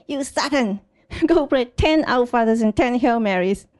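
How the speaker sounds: lightly acted stern priest; mock scolding. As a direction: scold a sinner, half joking. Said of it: "the priest scold them Satan".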